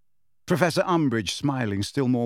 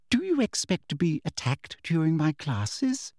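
lightly voiced prim teacher, falsely kind; sweet teacher voice; 5 semitones higher than usual. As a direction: talk down to her with syrupy politeness.

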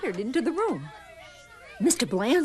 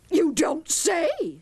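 high, slow put-on witch voice; sly witch; 7 semitones higher, slower than usual. A narrator's reading. Substitute answering the principal, slow and knowing. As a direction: stretch it out as the substitute.

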